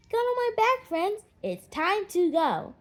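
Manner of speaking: put-on high, loud call to the children; rally the kids for take-off. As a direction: eagle calling his friends aboard. Eagle calls children aboard.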